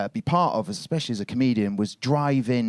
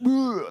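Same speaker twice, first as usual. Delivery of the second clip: winded bag noise; 10 semitones higher than usual. Retold or imitated. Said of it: "the bag was like".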